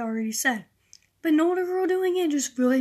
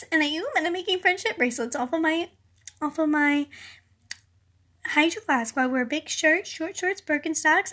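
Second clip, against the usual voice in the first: a hint of a chirpy VSCO girl showing off; mock VSCO girl; 3 semitones higher than usual. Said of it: "I hear across the room".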